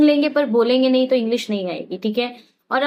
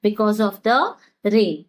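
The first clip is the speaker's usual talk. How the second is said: very slow, word by word for learners; slow teaching demo; much slower than usual. Shown as a demonstration. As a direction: spell it out slowly so students can repeat. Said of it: "तो कैसे कहेंगे?". (धीमे-धीमे सिखाते हुए)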